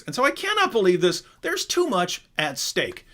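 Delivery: solemn pompous debater, hammed up; Craig impression. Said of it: "he goes".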